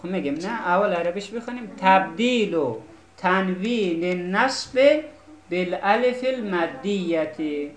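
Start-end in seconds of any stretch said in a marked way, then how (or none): 1.8-7.7 reciting the Arabic rule. Shown as a demonstration.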